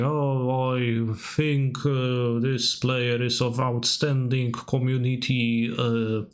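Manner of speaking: slow, drawn-out imitation of an endorsement; mock article endorsement. Imitating a pro player endorsing a buddy, slow mock praise. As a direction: spell out the praise slowly, pausing on uhs. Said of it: "writing, you know, an article for the C F B and saying".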